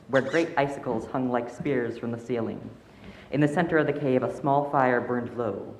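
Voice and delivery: calm storytelling voice; story narration. A narrator's reading. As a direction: read it like a bedtime tale. Story narration read aloud.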